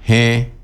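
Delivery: "G" said as hẽ, e through the nose; nasal vowel. Shown as a demonstration. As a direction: affirmative "G" as nasal hẽ. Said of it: "Con la primera es nasal".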